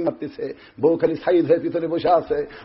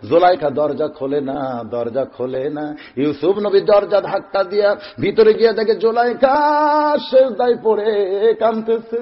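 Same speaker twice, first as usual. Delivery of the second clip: melodic sermon storytelling; 4 semitones higher than usual. Acted. Preacher telling of Zulaikha weeping in prostration, melodic chant. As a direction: intone each event with stretched endings.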